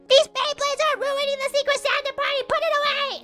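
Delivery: imitating Petra's mic announcement; mock mic scolding. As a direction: scold the room through a microphone. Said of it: "Petra using the microphone".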